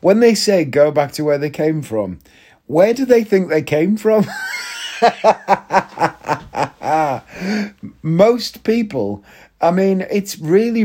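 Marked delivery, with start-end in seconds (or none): 2.6-4.2 exasperated shout. Real, not acted. Ranting to podcast listeners, an exasperated shout. 4.3-7.9 big shouting burst of laughter. Real, not acted. Laughs at own rant.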